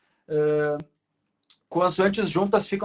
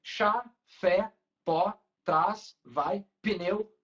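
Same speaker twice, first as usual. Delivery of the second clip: string of monosyllables; much slower than usual. Shown as a demonstration. Teacher compares pneu with other monosyllables, evenly spaced beats. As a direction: separate one-beat words with pauses between. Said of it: "emenda monossílabo".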